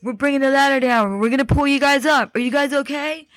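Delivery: high, projected mock call; imitated rescuer calling down. Rescuer to people in the elevator shaft, imitated calling out. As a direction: call down to trapped people, retold.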